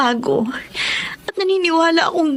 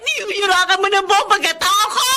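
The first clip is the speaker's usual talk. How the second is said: shrill accusing shout; 5 semitones higher than usual. Acted. Wife accuses cheating husband.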